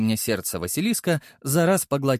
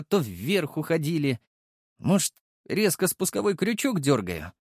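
put-on higher, fretful young voice; a troubled friend thinking aloud; worried young man; 5 semitones higher than usual.

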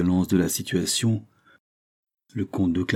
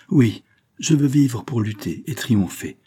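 higher, rallying declaration; newly determined, pitch raised; suddenly revived; 4 semitones higher than usual. Acted. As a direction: vow it with fresh spirit. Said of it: "soudain ranimé".

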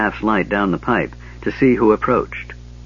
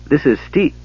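gasped; 6 semitones higher than usual. Acted. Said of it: "he gasped".

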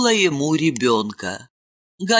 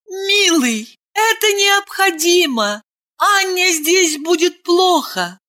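tender. Acted. Ailen tenderly calming her husband, much higher. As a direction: soothe him gently. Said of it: "Айлин нежно сказала".

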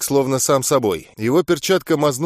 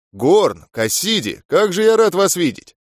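beaming greeting; 5 semitones higher than usual. Acted. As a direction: call out with a broad grin. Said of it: "улыбаясь во весь рот".

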